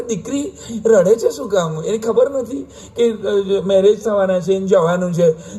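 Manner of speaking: mock naive questioner. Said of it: "એક જોડે મને કે".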